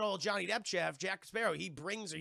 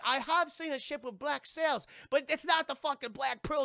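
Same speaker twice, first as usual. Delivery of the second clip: higher, odd character voice; put-on Jack Sparrow; 7 semitones higher, 4 dB louder than usual. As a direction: play the roguish pirate. Jack's put-on voice.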